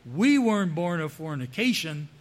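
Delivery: mild mock yell; understated heckler's yell. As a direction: call it out, leaning on the first word. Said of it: "for somebody to yell out".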